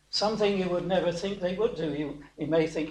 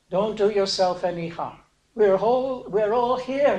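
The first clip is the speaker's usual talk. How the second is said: retold cry, raised and louder; mild preacher's version of a shout; calling out urgently; 4 dB louder than usual. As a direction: call out to stop someone harming himself. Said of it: "cries out to him".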